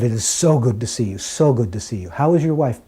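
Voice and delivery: gushing welcome, leaning on the repeated "so"; effusive greeting. Retold or imitated. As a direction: imitate a delighted host greeting a dear guest. Retold guru greets visitor warmly, effusively.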